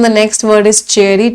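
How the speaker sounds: very slow, each word spaced; slow dictation. Shown as a demonstration. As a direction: spell it out slowly for the class. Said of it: "teacher announcing new word". (बहुत धीरे, शब्द-शब्द अलग करके)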